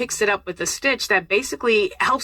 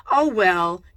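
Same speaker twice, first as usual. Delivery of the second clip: falling, dismissive "oh, well"; resigned verbal shrug; shrugging resignation; 2 semitones lower than usual. Shown as a demonstration. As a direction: let it drop like a shrug. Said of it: "shrug down".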